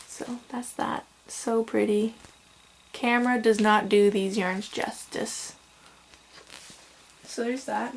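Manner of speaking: talking through hiccups; speaking while hiccuping. Real, not acted. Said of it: "I'm sorry, I have the hiccups".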